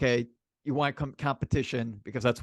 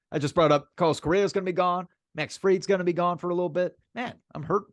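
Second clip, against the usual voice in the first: worked up; 5 semitones higher than usual. Real, not acted. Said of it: "sounds like you're getting a little nervous".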